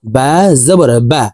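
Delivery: final বা cut short, vowel not stretched; quick short harakat. Shown as a demonstration. Teacher showing a harakat, quick short বা. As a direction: say the last বা quickly. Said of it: "দ্রুতভাবে অর্থাৎ তাড়াতাড়ি করে".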